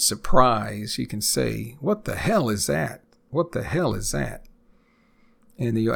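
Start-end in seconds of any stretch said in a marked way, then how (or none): 1.8-4.5 higher, rising disbelief on hell; astonished. Shown as a demonstration. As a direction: show real astonishment at something strange. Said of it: "if you want to express more astonishment, surprise".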